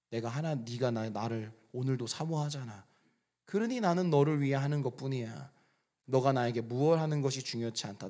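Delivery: put-on like a father reassuring his child; voice of God. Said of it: "주님의 음성".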